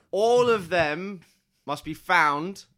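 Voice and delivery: very slow, solemn command; slow god decree. Acted. Player as god ordering creatures to capture others, slow and solemn. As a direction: decree it slowly and gravely.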